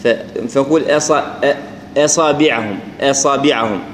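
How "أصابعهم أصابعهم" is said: أصابعهم with a thick, emphatic همزة; خطأ: أصابعهم مفخمة; wrong أصابعهم. Shown as a demonstration. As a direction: darken the opening hamza of أصابعهم. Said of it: "ما نقول أصابعهم".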